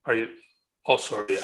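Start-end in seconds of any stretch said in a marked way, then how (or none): 0.1-0.3 choppy, breaking up on a call; bad connection. Real, not acted. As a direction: voice dropping out over a bad line. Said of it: "think I lost you".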